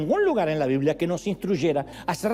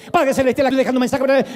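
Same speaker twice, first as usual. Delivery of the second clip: mock voicemail prayer; 5 semitones higher, 7 dB louder, faster than usual.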